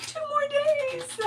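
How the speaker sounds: high, slow, sing-song; a squeaky happy countdown; mock cheerful inner voice. Host telling a viewer her week, high squeaky mock glee. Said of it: "I'm like".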